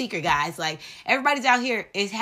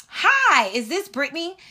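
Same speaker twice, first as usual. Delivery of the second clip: bright, higher receptionist phone voice; doctor's office caller; 5 semitones higher than usual. Retold or imitated. She role plays the doctor's office calling her, perky receptionist. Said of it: "let's role play".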